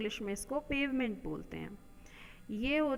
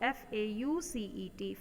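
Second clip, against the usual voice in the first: spelled letter by letter. Shown as a demonstration. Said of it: "spelling out the word".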